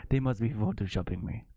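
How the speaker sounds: loose mock Russian accent; a hint of comic Russian accent. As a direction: lightly put on a Russian accent. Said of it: "That's my Russian accent".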